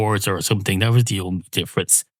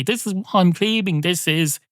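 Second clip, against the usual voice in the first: defiant claim; 6 semitones higher than usual. Retold or imitated. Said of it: "I stand up for myself and say".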